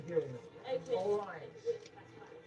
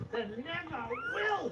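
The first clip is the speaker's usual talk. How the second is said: high, slow, drawn-out shout; 10 semitones higher, much slower than usual. Real, not acted. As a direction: bellow it out, stretching every word. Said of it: "Sorry for shouting".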